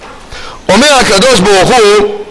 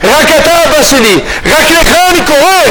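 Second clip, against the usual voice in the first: devoted plea; 4 semitones higher than usual. Retold or imitated. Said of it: "אם האדם יודע להגיד".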